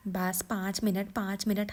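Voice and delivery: mother-in-law mocking her daughter-in-law's excuse; mocking repeat. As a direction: throw her words back at her. Mother-in-law mocks bahu's words.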